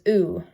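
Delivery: "oo" as in chew; high back rounded, tense "oo". Shown as a demonstration. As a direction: draw out "oo" like the vowel in loot. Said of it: "the description is high back, rounded, and tense".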